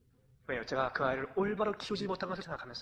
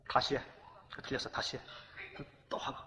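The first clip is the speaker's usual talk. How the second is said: curt correcting; 5 semitones lower than usual. Retold or imitated. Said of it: "이렇게 좀 했습니다".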